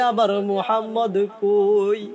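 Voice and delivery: understated plaintive asking; subdued searching plea; restrained tearful question. Acted. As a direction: ask with grief held back, at speaking pitch. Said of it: "কান্দে আর কয়".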